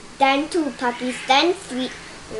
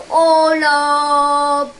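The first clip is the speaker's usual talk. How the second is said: excited; 5 dB louder than usual. A narrator's reading. Reacting to escaped puppies.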